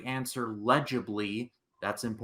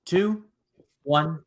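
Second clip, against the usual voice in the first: loud countdown; 7 semitones higher, 6 dB louder, slower than usual. Acted.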